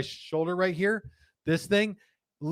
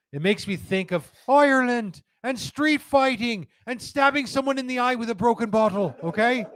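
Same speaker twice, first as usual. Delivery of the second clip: excited; 8 semitones higher than usual. Real, not acted. Excited riff on badass cigar art.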